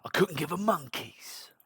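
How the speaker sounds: slow, exaggerated mocking echo; mock indifference. Host parodies man who says he doesn't care, mocking.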